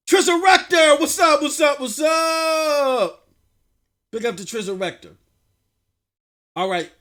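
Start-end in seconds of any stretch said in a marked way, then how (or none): 0.1-3.3 sing-out greeting, last word stretched long; hyped shout-out. Real, not acted. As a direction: hail a viewer with a long-held final call. Hailing a chat member, drawn out.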